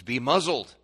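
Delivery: stern, contained command; firm command. Acted. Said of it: "He would say to demons".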